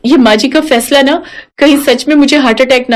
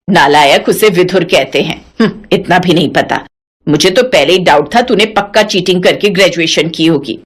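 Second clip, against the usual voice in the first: put-on lower, scolding old mother-in-law; 6 semitones lower than usual. Mother-in-law scolding her daughter-in-law, lower feisty voice. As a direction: play the feisty old saas brushing her off.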